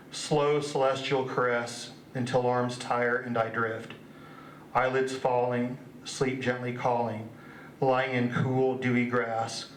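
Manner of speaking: measured poem recital, phrase by phrase; poetry reading. Acted. Poet reading stargazing verse to an audience, measured recital. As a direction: read the verse evenly, pausing after each image.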